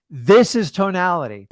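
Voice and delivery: lifted, punchy delivery; tonality demo. Shown as a demonstration. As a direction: say it with energy and inflection. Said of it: "When I talk about tonality, it's just like this".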